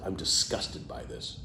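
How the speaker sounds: soft whispered aside. Shown as a demonstration. The plain phrase whispered as the rejected option. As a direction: drop to a whisper. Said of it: "say abhor".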